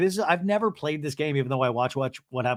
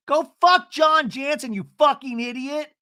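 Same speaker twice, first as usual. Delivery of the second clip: high, loud imitated shouting; angry outburst; 11 semitones higher, 5 dB louder than usual. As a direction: hurl the insult in her voice, up high. Retold shouted insult in fight.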